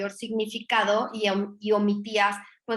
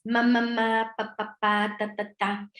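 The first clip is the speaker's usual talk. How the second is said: put-on baby babbling; slower than usual. Shown as a demonstration. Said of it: "sonidos de sílabas".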